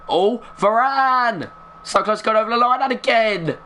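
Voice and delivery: high, drawn-out cry at the chance; excited near-miss cry. Real, not acted.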